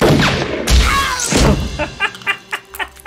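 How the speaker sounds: gleeful cackle. Acted. I guess there is a God.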